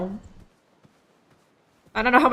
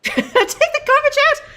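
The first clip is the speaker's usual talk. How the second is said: shrill mock command. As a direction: bellow the chore like a domineering woman. Barking chores as dominant woman.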